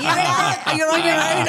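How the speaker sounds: high, loud, laughing through the words. Retold or imitated. Daughter laughing as she leaves her arguing dad. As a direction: laugh while bailing on him.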